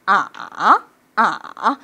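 "아" squatting low, then getting up; dipping tone. Shown as a demonstration. Teacher doing knee bends, dipping then rising tone. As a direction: bend "아" down and bring it back up. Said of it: "앉았다 일어나".

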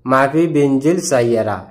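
মাফি বিনজিল সাইয়ারা said slowly, each word set apart; slow demo. Shown as a demonstration. Bengali teacher repeating the Arabic for students, slow and careful. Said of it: "আরবিতে বলে".

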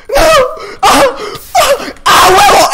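gritos agudos y fuertes; gritos de combate. Real, not acted. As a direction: suelta alaridos en plena pelea. Grita en plena pelea del juego. (gritando a todo pulmón)

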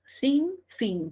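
SIN and FIN each stressed separately; "Sin fin" as two equally stressed words. Shown as a demonstration. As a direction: give both "Sin" and "fin" their own stress. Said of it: "Cada una de ellas tiene una mayor fuerza de voz".

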